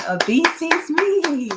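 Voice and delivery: high, loud and bright sentence; excited reading. Shown as a demonstration. Teacher modelling an excited sentence for students. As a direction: read it with excitement. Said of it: "that's super fast".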